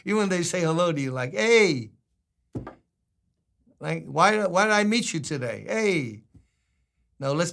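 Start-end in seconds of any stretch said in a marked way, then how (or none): 1.3-1.9 Hey thrown out high and loud, annoyed; hey with attitude. Retold or imitated. New Yorker greeting a stranger with attitude, loud Hey. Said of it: "New Yorkers can have an attitude". 4.1-6.2 grudging New York attitude. Retold or imitated. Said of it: "New Yorkers can have an attitude".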